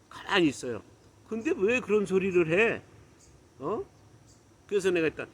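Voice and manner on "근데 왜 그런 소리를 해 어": raised-pitch indignant challenge; re-enacted annoyed questioning; retold anger. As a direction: demand an explanation, mildly heated. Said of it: "제가 화를 낸 거예요".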